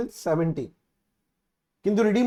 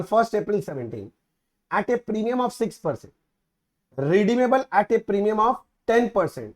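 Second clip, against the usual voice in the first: slow, deliberate read-out of an exam question; measured dictation pace; reading the question aloud; much slower than usual. Acted. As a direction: spell it out word by word for students. Teacher reads the question aloud.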